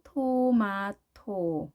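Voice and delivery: 토마토 said slowly in three even Korean syllables; Korean-style syllables. Shown as a demonstration. English teacher showing the Hangul spelling, slow even 토마토. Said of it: "한글로 쓸 때는".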